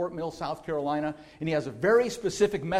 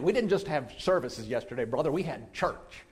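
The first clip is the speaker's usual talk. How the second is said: imitating a preacher friend; 2 semitones lower than usual. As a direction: ham up a fellow pastor's pulpit voice. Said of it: "some pastor friends that will say that".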